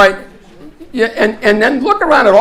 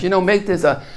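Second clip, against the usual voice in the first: put-on Australian accent. Movie expert telling scientists how raptors hunt, Australian accent. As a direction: imitate the Australian guy from the film. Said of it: "I love to do the Australian accent".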